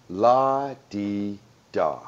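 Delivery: slow, sing-song la-di-da; drawn-out breezy la-di-da; lightly imitating Diane Keaton; Annie Hall la-di-da. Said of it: "Diane Keaton's Annie Hall line".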